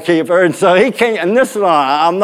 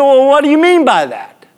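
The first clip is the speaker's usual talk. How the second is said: high, indignant umpire voice; mock yelling; 10 semitones higher than usual. Umpire challenges the pitcher's remark, mock-indignant yell. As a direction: imitate an umpire taking umbrage. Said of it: "we're yelling".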